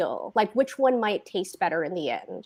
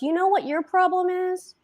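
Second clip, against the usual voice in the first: mock sneer; 9 semitones higher than usual. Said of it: "Kenny goes".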